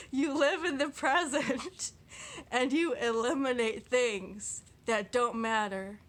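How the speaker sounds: slow, deliberate, still half laughing; careful slow reading. Shown as a demonstration. Vlogger retrying a quote she flubbed, slow and careful. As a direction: read each word slowly and carefully. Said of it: "let me start again".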